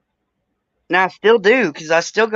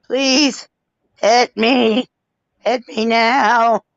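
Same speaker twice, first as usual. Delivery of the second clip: a slightly higher, pleading cat voice, the last words slow; voicing the cat; 3 semitones higher, much slower than usual. Owner voicing her cat as it begs to be hit, pleading. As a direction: beg to be hit like a playful cat. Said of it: "It's like".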